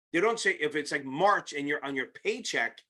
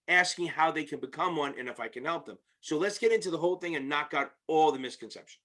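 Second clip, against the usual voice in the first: speech slurred by sore teeth; talking with bad teeth. Real, not acted. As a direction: talk around aching teeth, a bit off. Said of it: "if I'm talking weird, it's because, well, my teeth are just screwed up".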